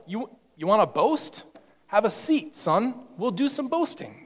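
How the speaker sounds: a touch of swagger, teasing; mock-tough, have a seat son; playful bravado; cocky challenge.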